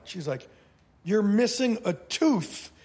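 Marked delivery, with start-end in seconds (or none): 1.0-2.7 incredulous makeup artist. Retold or imitated. Makeup artist reacting to injury.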